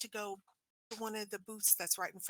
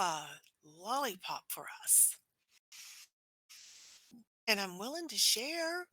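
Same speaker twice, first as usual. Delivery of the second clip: Tanwin coaxing; 3 semitones higher than usual. Acted. Player voices Tanwin coaxing April.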